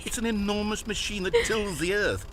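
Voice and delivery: high, fast incredulous outburst; baffled and appalled at the answer; exasperated disbelief. Acted. Narrator shocked at wrong answer.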